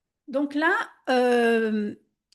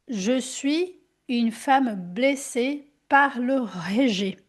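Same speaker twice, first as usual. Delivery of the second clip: slow affirmation; slower than usual. Shown as a demonstration. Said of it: "tu vas poser la question".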